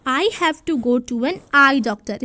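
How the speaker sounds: slow, deliberate read with the blanks filled in; slow answer read. Shown as a demonstration. Teacher reads the completed answer to children, slow and clear. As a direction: read the finished sentence slowly. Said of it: "इस तरीके से आ जाएगा".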